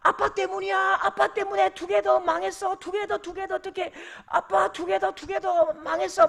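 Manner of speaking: put-on high, loud tantrum wail of a little boy; angry whining child. Son blames dad over dropped ice cream, high angry wail. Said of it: "막 화를 내는 거죠".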